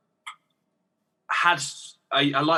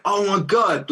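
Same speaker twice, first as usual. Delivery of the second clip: amazed; 5 semitones higher, 3 dB louder, slower than usual. Retold or imitated. Amazed at hitting high C.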